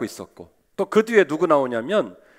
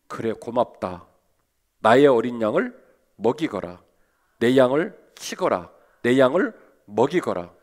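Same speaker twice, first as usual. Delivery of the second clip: a touch of a tender Lord; 4 semitones lower than usual. Retold or imitated. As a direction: speak as a forgiving Lord. Lord's tender reply to Peter.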